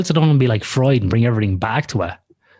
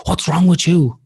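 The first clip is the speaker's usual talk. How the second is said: higher-pitched mock outrage; mock indignation; 7 semitones higher than usual. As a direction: imitate someone getting worked up at you. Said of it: "get mad".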